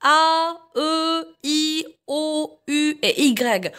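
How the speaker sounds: "A, E, I, O, U et Y" as long, level French vowels; teacher drilling "A, E, I, O, U et Y", evenly spaced. Shown as a demonstration. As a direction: repeat "A, E, I, O, U et Y" slowly, holding each vowel. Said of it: "نعاودوهم".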